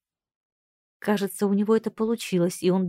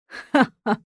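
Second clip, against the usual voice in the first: throaty laugh; 5 semitones higher, 4 dB louder than usual. Acted. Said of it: "засмеялся гортанным смехом".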